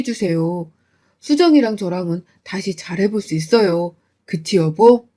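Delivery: husband begging his in-laws in the car; meek pleading husband. Acted. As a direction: plead for forgiveness.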